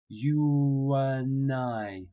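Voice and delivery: "you and I" very slowly, w glide, no D; dropped D. Shown as a demonstration. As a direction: say "and" as "an", linked with a w. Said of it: "when you're speaking quickly, we drop the D".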